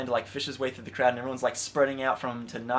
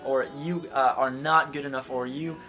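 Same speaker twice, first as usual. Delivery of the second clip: jab the blame at them; mock accusers, pointed; accusing crowd; 3 semitones higher, 4 dB louder than usual. Voicing accusers throwing rocks.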